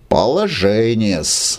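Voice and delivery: slow, lightly sighed remark; sighing. Acted. Халявкин sighs over the awkward situation. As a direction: sigh it out with mild sympathy. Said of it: "вздохнул Халявкин".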